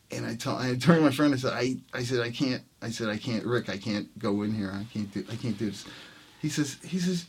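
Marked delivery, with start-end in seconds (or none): 2.2-5.8 low, soft, halting plea; retold nervous balking, kept under the breath; daunted protest. Nervous player to his friend at the club door, quietly balking.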